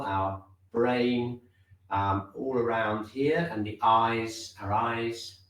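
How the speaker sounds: measured meditation guidance with long pauses; unhurried, spacing out each body part; guided body scan. Real, not acted. Teacher leading class inward from top to toe, guided body scan.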